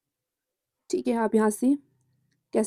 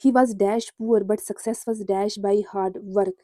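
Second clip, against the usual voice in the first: slow dictation reading; much slower than usual. Shown as a demonstration. Reads quiz sentence aloud slowly.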